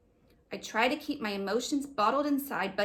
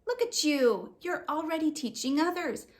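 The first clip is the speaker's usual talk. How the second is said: smiling mom; 5 semitones higher than usual. Acted. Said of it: "Mom says with a smile".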